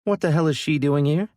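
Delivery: high, loud startled cry; shocked outburst. A narrator's reading. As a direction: blurt it out in shock. Surprised at Maddie appearing.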